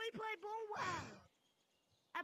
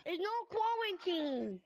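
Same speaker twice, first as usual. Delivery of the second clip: put-on Indian accent; 5 dB louder, much slower than usual. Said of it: "I was your Indian accent".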